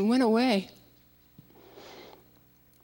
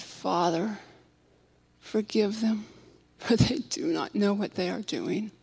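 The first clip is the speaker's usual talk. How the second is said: softer, gentle prayer to the Father; 7 dB quieter than usual. A narrator's reading. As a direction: pray quietly for forgiveness. Jesus praying on the cross.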